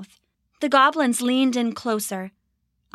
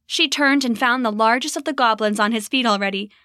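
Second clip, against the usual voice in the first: ordinary delivery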